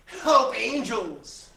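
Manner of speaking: loud, high cry for help; desperate outcry. Acted. Guilty king calling on angels, desperate stage cry. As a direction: cry out to heaven, dropping from a high start. Claudius pleads to heaven in monologue.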